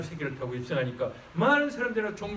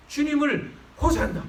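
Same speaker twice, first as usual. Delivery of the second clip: higher calling Hosanna; crying out Hosanna; 8 semitones higher, slower than usual. Shown as a demonstration. Preacher models the prayer cry, raised and calling. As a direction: call on the Lord. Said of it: "그렇게 한번 해보세요".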